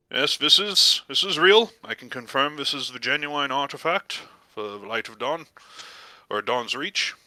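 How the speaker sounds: lightly voiced formal priest; a hint of official priestly gravity; verifying priest. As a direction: pronounce the verdict as a careful cleric. Priest pronounces the artifact genuine.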